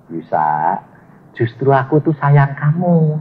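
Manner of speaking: a hint of tender fatherly love; gentle voice of God. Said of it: "Jawabannya Tuhan bilang apa?".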